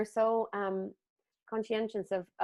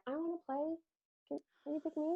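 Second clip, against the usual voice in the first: put-on childlike plea; 8 semitones higher, 10 dB quieter, faster than usual.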